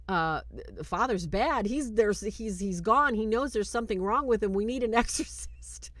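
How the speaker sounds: retold agitated plea, tumbling out; mock panic. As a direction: act flustered and urgent. Michael panicking to his journalists.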